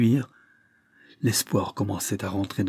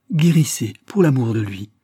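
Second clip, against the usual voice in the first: urging plea; 7 dB louder than usual. Acted. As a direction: press her to get well. Urging her to heal. (supplication forte et aiguë)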